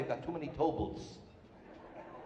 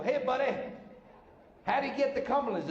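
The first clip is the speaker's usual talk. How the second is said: lightly disguised, higher voice; changed voice; 6 semitones higher than usual. Acted. Lost driver asking the same guy, in a lightly disguised voice. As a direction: put on a slightly different, higher-pitched voice. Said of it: "so I changed my voice".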